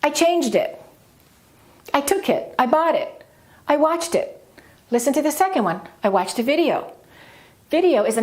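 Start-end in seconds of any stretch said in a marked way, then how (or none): 0.0-4.4 high beat on "changed", "took", "bought", "watched", each linked into "it"; linked, verb stressed. Shown as a demonstration. Teacher drilling linking, high stress on each verb before "it". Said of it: "we link it". 6.0-6.9 "video" gets the main stress, then falls. Shown as a demonstration. Teacher demonstrating the second sentence, main stress on "video". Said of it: "second key word gets more stress".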